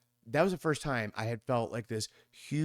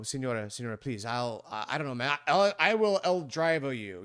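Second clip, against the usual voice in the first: white guy broken Spanish. Retold or imitated. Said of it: "what white people do when they don't speak Spanish".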